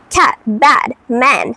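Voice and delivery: "Cat, bad, man" with a wide A. Shown as a demonstration. Giving learners examples, "Cat, bad, man" with wide A. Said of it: "sometimes it is wider".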